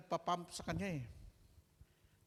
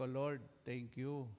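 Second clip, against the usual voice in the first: grateful prayer; 5 semitones lower, much slower than usual. Retold or imitated. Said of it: "Ang sabi ko".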